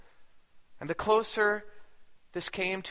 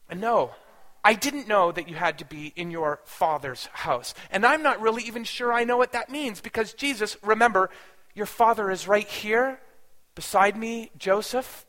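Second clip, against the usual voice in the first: firm, emphatic parental correction, louder on key words; forceful; 3 semitones higher, 4 dB louder than usual. Retold or imitated. Mother correcting Jesus about his father Joseph, forceful. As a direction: set the boy straight with some force. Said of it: "I wanted to say with some force".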